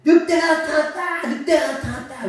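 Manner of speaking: high, loud cry of alarm; shout for help. Acted. Shepherd boy seeing a real wolf, loud cry. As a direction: call out that the wolf is here. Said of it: "외쳤습니다".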